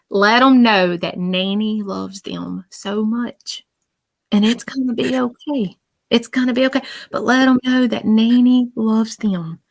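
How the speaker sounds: slow, tender reassurance; loving grandmother message. Retold or imitated. Medium relays a nanny to her grandchildren, tenderly. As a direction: reassure them slowly and lovingly. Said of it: "But she keeps saying".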